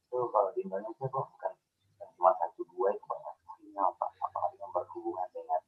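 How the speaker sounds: half robot voice. Real, not acted. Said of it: "suaranya kayak robot, mendem begitu".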